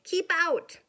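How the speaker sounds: loud grumpy yell. Acted. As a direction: bark it at the intruder. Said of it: "yelled Hank".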